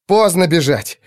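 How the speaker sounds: hissed. A narrator's reading. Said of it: "прошипел Кирсон".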